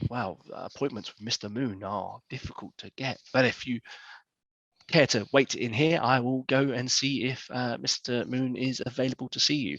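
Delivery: a hint of a discreet, courteous manager; lightly voiced Lady Clara. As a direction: stall politely and softly, then offer help.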